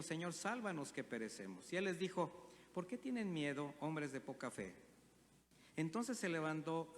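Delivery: measured Bible reading to the congregation; scripture reading. Acted. Preacher reading the storm passage aloud, measured scripture reading. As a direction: read the gospel steady and clear.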